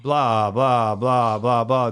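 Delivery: sing-song mock of endless chatter; mocking blah-blah. Speaker mocks people who ramble on at meetings, sing-song. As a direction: lilt the blahs like a bored chant.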